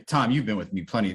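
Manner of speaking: ordinary delivery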